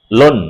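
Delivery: "লোন" alone, ending on a held n; closed syllable. Shown as a demonstration. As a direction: let the tongue stop on the n of "লোন". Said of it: "জিভটা আমার গিয়ে ঠেকে যাচ্ছে".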